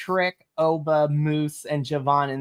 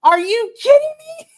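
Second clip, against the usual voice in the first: shrieking high-pitched disbelief; outraged disbelief; 8 dB louder than usual. Retold or imitated. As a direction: squeal it out like you can't believe the booking. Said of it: "I'm like".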